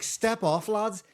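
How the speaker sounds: put-on high, loud Liverpudlian girl; Liverpudlian accent. Girlfriend talking down the knife men, high Liverpudlian accent. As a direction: Liverpudlian girlfriend calming the lads down. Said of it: "Liverpudlians have a very specific accent".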